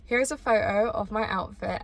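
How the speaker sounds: ordinary delivery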